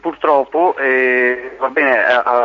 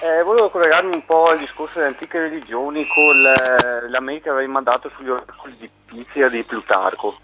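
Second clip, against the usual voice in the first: over the phone. Real, not acted. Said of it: "dovresti parlare per telefono".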